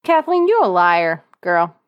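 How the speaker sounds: mock scolding. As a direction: scold her like she's in the room. Scolding absent Kathleen.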